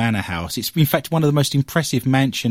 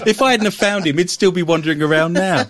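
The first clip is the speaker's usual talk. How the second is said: amused; 8 semitones higher, 5 dB louder than usual. Real, not acted. Host teasing his lost colleague, amused and laughing. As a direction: still chuckling through the words.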